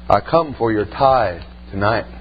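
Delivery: low, slow, sinister man's voice; menacing stranger. Retold or imitated. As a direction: growl it slowly like a threat. Demonic stranger demands the tithe.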